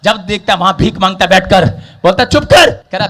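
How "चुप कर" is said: sudden sharp command to hush; acted rebuke to silence someone; scolding. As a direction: cut the beggar off with a raised voice. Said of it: "उसको डांटने लगे".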